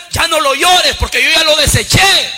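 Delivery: loud, commanding divine rebuke; voice of God. Acted. God rebuking Samuel for mourning Saúl, loud and commanding. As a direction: thunder it down from above. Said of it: "dijo Dios a Samuel".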